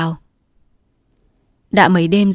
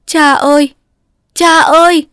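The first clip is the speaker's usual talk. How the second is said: high, loud tearful cry for father; calling and crying; 10 semitones higher, 8 dB louder than usual. A narrator's reading. Daughter finding her bound father, crying out to him. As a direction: cry out to him through tears. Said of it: "vừa gọi vừa khóc".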